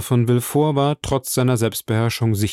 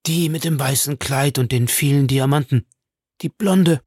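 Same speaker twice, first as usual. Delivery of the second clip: urgent alarm; 3 semitones higher than usual. A narrator's reading. Bertuccio identifies the woman to the Count, alarmed. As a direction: point her out in alarm.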